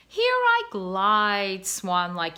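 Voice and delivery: slow, lofty recital of a proud swan; lightly voiced proud father swan; poetic cob. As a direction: savor each word like a poet. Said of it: "made him feel poetic".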